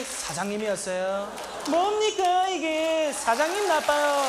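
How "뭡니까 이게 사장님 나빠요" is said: high, loud indignant catchphrase; mock outraged shout. Worker crying out against his boss, mock fury. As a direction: protest at the top of the voice.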